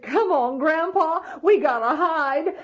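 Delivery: high, loud call to hurry; urgent urging. Acted. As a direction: hustle Grandpa along urgently. Boy urging grandpa to hide.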